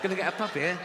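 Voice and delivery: high, eager chant; excited child. Acted. Seven-year-old promised a puppy, over-excited. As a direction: chant it, thrilled at the prize.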